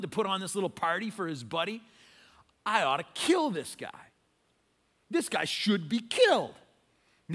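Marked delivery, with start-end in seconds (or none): 2.6-6.5 indignant, emphatic retold anger; mock outrage. David reacting to Nathan's story, indignant. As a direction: play a touch of outrage. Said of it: "David hits the roof".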